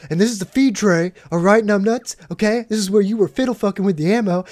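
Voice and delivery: imitated soldier chewing them out; mock grilling. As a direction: lecture the clueless cadets sharply. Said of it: "grilling these two cadets right next to us".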